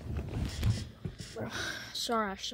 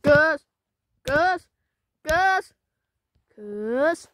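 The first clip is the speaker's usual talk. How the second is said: calling out; 4 semitones higher, 13 dB louder, much slower than usual. Real, not acted. Calling out to friends.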